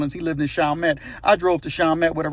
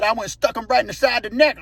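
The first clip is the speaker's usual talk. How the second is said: excited retold shout; 5 semitones higher, faster than usual. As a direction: tell the stabbing in a quick half-shout. Retold climax of hog killing.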